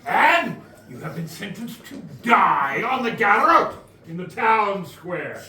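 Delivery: stern executioner announcing; executioner proclamation. Acted. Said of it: "the executioner steps up to announce".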